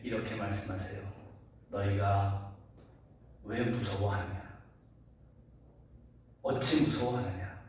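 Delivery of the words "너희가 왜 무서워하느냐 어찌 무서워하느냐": retold scolding that opens restrained and ends forceful; Jesus' rebuke. Jesus to his frightened disciples, retold rebuke building in force. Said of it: "이렇게 책망하시는 말씀을".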